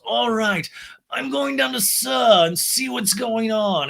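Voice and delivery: high, slow, posh voice; Lisa impression. Lisa inspects the sandwich, high slow posh voice. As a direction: savor each word like a grande dame.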